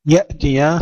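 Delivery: يأتي with a clean stop on the hamza; unbounced hamza. Shown as a demonstration. Teacher models the word, still hamza. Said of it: "سكون الهمزة بدون قلقلة".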